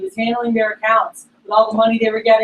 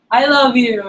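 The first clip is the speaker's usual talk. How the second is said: retold tipsy declaration of love, slightly raised; drunk friend; 2 semitones higher, 3 dB louder than usual. Drunk friend on a late night call, mock tipsy affection. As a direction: imitate a tipsy pal getting affectionate. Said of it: "You've been drinking".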